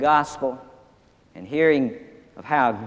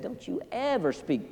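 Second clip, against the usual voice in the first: higher, scolding the bird; stern manager; 10 semitones higher, 8 dB quieter than usual. Acted. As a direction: warn the parrot sharply. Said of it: "and he said".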